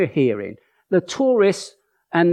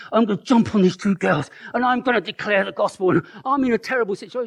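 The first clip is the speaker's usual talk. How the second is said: strained, higher-pitched mock resolve; mock willpower; 5 semitones higher, faster than usual. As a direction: act out forcing yourself into it. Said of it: "what was needed is not willpower".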